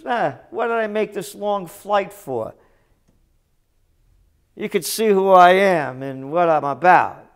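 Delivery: mock boastful celebrity, lightly voiced; a hint of smug bragging. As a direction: sneer it like a braggart. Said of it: "Bragging about it".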